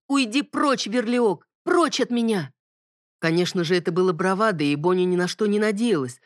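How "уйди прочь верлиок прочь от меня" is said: commanding shout. Acted. Bonnie commands the demon.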